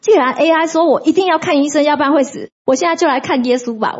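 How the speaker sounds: light up with a eureka thought; sudden realization. Retold or imitated. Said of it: "我就想说".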